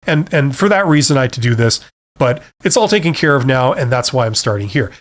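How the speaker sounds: calm, professional explanation; matter-of-fact. Shown as a demonstration. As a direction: state it in a plain, businesslike way. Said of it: "very professional, matter-of-fact way".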